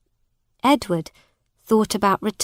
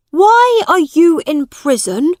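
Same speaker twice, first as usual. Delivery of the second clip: put-on higher, eager boy's voice; young prince; 9 semitones higher, 9 dB louder than usual. A narrator's reading. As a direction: resolve it like an earnest boy. Edward questions a man.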